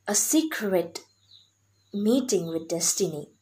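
hushed dramatic whisper. Shown as a demonstration. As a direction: drop to a breathy secret whisper. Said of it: "repeated line then whispered".

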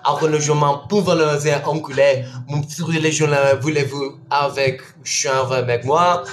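mock French. Streamer welcoming a French-speaking viewer in mock French. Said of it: "but they speak French".

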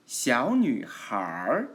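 小女孩 slow, with 孩 curled into "har"; erhua ending. Shown as a demonstration. Teacher shows students erhua on 小女孩, ending in a curled r. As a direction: curl the tongue to end 小女孩 in an r. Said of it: "알화가 붙이면 小女孩".

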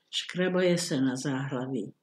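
ordinary delivery

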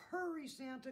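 high, loud rooster call. A narrator's reading. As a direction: call urgently from a distance. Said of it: "called the rooster from the gate".

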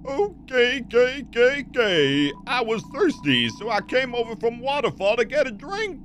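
high, drawn-out put-on character voice; high game-character voice. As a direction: pitch it way up and stretch the words. Voicing a game character's lines.

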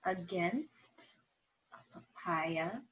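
lively, expressive storybook reading; reading to children. Acted. Teacher reading a story aloud to her students, expressive storytelling. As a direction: tell it like a picture book for the class. Reads picture book aloud.

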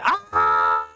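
loud drawn-out "ah"; startled cry. Real, not acted. To an interruption while presenting, loud cry. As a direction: cry out loudly in annoyance.

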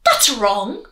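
a touch of indignant wolf; cried. Acted. Wolf correcting the girl, mildly indignant. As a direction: snap it out impatiently. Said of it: "cried Wolf".

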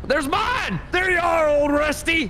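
high, happy call to a horse. Real, not acted. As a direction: hail the horse from afar. Calling his horse.

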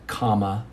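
"comma" said low and soft, like a pause mark; spoken punctuation. Shown as a demonstration. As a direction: drop in quietly with "comma". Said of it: "Commas are".

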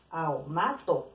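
aomato said very slowly, vowels pulled apart; slow example word. Shown as a demonstration. Teacher to students sounding out an example, very slow. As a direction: let each vowel of aomato sound on its own.

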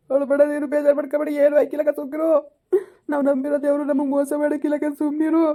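pleading through tears with grandma; crying. Acted. Grandson begs grandma to have surgery, crying. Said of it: "ಅಳ್ಬೇಡಿ ಸುಮ್ಕಿರಿ".

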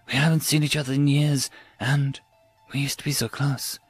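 halting, with a touch of regret; remorseful lament. Acted. Raoul confides in Jennifer about growing apart, remorseful. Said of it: "his voice damp with remorse".

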